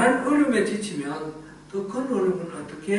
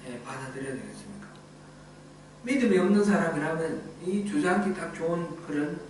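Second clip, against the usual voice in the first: ordinary talk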